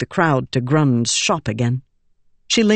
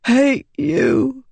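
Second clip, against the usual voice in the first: put-on high, wounded boy's voice; a dying boy spitting his resentment; hurt boy; 9 semitones higher than usual. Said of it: "Grund whispered".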